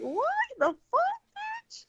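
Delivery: high mock road rage yell, trailing off; angry outburst at the driver, pitched high; retold angry yell. Driver yelling at the woman who cut her off, angry and high.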